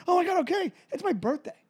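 put-on high, distressed kid's plea; mock tearful protest. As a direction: wail like a scolded child on the verge of tears. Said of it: "You're crying your eyes out".

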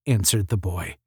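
usual speaking voice

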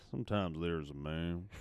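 low, soft, laughing delivery; deep movie-trailer voice through laughs. Pretend. Riffing back, laughing.

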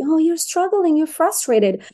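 lightly acted caring parent; talking to baby. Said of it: "I can say to a baby".

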